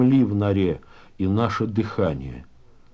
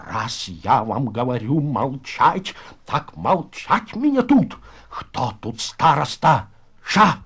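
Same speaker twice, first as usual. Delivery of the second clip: angry command; 2 semitones higher, slower than usual. Acted. Староста silences his insubordinate comrade, angry command. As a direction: lay down the law, word by word.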